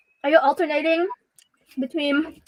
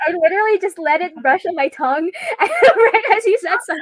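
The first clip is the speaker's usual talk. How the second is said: laughing; 3 semitones higher than usual. Real, not acted. Tasting ghost pepper noodle.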